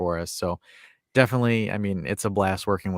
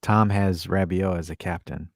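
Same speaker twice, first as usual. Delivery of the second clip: disappointed father; 3 semitones lower than usual. Retold or imitated. Streamer forgives Tom over his captain choice, disappointed. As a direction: sigh it out with long forgiving pauses. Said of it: "he's like this. He's like".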